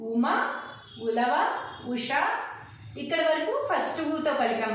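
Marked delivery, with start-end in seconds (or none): 0.1-2.1 short ఉ opening ఉమ and ఉష; short vowels. Shown as a demonstration. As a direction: say ఉమ, ఉలవ, ఉష with an unstretched ఉ. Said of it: "షార్ట్గా పలికాం".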